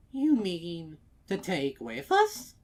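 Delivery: high, loud disbelief; gently amazed; surprised old mare. A narrator's reading. Old mare asking mayor, surprised.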